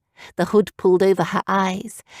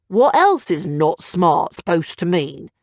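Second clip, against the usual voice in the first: slow puzzled voice; baffled Scout; 2 semitones lower, slower than usual. Acted. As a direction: ask slowly, baffled. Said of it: "Scout asked, completely baffled".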